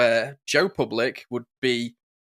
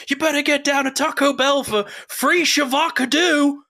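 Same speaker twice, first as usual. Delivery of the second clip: high, put-on meme voice; hammed-up lady reading a sign wrong; imitated viral-video lady; 12 semitones higher, 3 dB louder than usual. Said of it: "she pulls up and she goes".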